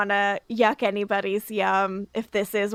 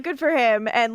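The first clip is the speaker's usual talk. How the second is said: ordinary talk, nothing marked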